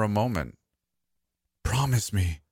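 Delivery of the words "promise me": mild mock scream. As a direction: push it out, insistent but contained. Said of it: "I screamed".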